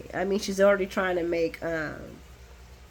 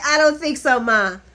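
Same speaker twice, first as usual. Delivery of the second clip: louder, insistent chant of no; firm repeated refusal; 3 semitones higher, 5 dB louder than usual. Retold or imitated. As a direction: hammer the refusal at mom. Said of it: "They're like".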